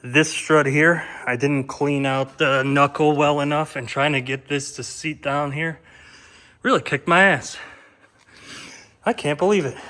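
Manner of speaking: winded, panting between phrases; out of breath. Real, not acted. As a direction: talk while still catching breath. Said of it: "you could hear I'm out of breath".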